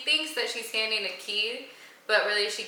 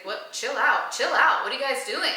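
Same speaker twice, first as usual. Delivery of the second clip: building from normal to louder, higher alarm; retold panic, protesting more urgently; mock scared; 4 semitones higher, 5 dB louder than usual. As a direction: play someone getting nervous and calling a halt. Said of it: "he starts getting scared".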